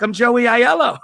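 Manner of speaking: high, proud announcement; excited reveal. Retold or imitated. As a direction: announce your name as the big reveal. Proudly reveals his name to kid.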